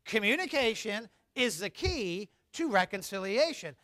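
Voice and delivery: recited again. Shown as a demonstration. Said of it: "One more time".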